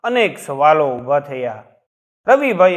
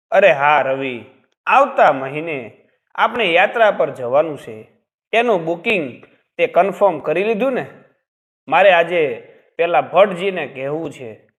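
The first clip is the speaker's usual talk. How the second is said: mildly excited, lightly lifted voice; a touch of eagerness as he reminds his son; 2 semitones higher than usual. Acted. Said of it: "ઉત્સાહમાં કહ્યું".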